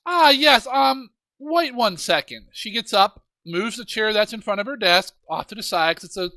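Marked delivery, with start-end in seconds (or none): 0.0-2.5 witch voice. Acted.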